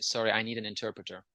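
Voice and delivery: whispered under the breath; whispered aside. Retold or imitated. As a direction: drop to a quick whisper. Joking retold reply to dialect.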